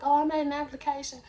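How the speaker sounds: high, loud mimicked caller; naive caller. Applicant telling a coworker about applying, mimicked high voice.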